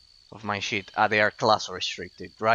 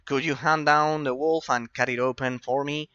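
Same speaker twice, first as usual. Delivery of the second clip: voicing NPC request; 5 semitones higher, 4 dB louder than usual. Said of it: "I'll have to do all the reading myself".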